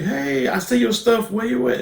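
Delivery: lightly acted high call; mock calling out. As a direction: imitate someone calling for a missing friend. Voicing Jonathan calling for Nancy.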